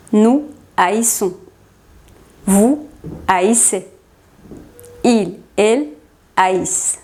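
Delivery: "haïssons", "haïssez", "haïssent" begin A-I, two vowels; A and I separated. Shown as a demonstration. Teacher conjugating haïr, A and I kept apart in "haïssons", "haïssez", "haïssent". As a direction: split the start of "haïssons", "haïssez", "haïssent" into A then I. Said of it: "separamos la A de la I".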